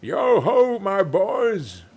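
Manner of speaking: rally the lads cheerfully; jolly boss call. A narrator's reading. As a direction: Fezziwig calling out to his apprentices, jolly. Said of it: "said Fezziwig".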